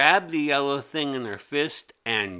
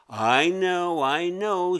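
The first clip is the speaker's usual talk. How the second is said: through her teeth; 7 semitones higher, 6 dB louder, slower than usual. Acted. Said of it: "she said through her teeth".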